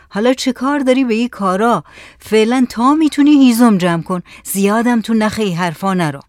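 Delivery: fed up, pitch and volume lifted at first; out of patience. Acted. Village headman's son to Saleh, telling him to gather wood, impatient. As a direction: brush the talk off impatiently.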